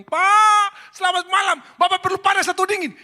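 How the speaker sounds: very high, loud sing-song greeting; sweet welcoming wife. Retold or imitated. Wife greeting her drunk husband with exaggerated sweetness.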